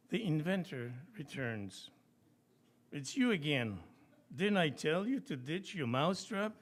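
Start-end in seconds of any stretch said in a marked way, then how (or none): 2.9-6.5 irritated clerk. Acted. Clerk scolds returning inventor.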